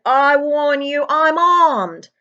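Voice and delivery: high, loud, slow warning; threatening shout. Acted. Uncle Vernon warns the intruder, high and loud. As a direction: bluster like a frightened man with a gun. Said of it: "he shouted".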